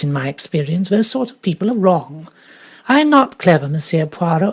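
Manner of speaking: put-on emphatic, opinionated older lady; a lady who knows her own mind; forceful elderly lady. Lady Astwell insists to Poirot.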